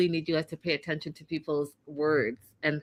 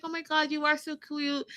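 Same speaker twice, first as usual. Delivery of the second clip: put-on high, soft, smitten girl; imitating a smitten woman, high and hushed; mock swoon; 7 semitones higher, 5 dB quieter than usual. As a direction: coo it like she's melted. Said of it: "She's like".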